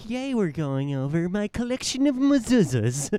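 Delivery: very high, loud, swooping, bouncy voice. Imitating the voice she pushed out on YouTube: imitating Barbara Dunkelman. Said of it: "She's like".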